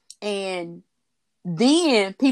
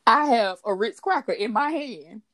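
laughing while talking; 8 semitones higher, 3 dB louder than usual. Real, not acted. Giggling about her cracker.

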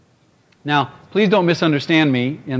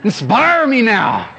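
much higher, louder, slow pleading cry; desperate prayer; 13 semitones higher, 3 dB louder, much slower than usual. Retold or imitated. Preacher praying for help in a panic, a high pleading cry. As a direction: beg God for help, half laughing.

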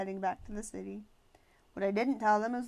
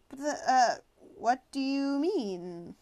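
startled; 4 semitones higher, 6 dB louder, slower than usual. Acted. Grover startled, nearly jumps.

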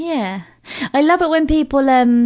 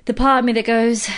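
usual speaking voice

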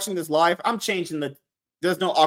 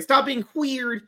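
slow scolding; 7 semitones higher, slower than usual. Retold or imitated. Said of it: "Meg was like".

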